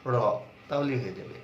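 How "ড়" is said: র as ṛ from the same place as ট; retroflex flap. Shown as a demonstration. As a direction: curl the tongue back for র. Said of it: "মূর্ধাতে touch করে আছে".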